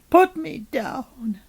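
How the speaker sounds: high, slow, stretched-out cry; shouted demand. A narrator's reading. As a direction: wail the order, drawing out the last word. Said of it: "shouted the head".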